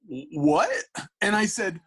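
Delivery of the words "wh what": loud, high, stuttered question; baffled reaction. Retold or imitated. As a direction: imitate someone utterly thrown. Acts the artist's baffled reply.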